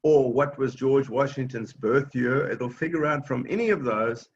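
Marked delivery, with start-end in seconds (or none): 0.3-2.5 clear spoken command. Shown as a demonstration. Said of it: "Just like that, in plain English".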